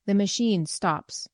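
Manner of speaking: slow, solemn pronouncement. Acted. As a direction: speak it slowly, gravely, from the dark. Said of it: "speaking out of the darkness with solemnity".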